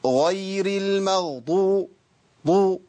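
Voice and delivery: drawn-out recitation with ض pushed into an emphatic T; forced Dad. Shown as a demonstration. Teacher showing pupils the error of force, forced ض in المغضوب sounding like ط. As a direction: hit the ض in المغضوب so hard it turns into a ط. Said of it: "لو دخلت على الضاد بقوة هجيب طاء".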